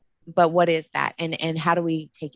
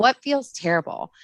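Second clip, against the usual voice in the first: lifted question; 7 semitones higher than usual. Retold or imitated. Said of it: "I just kinda go in and say".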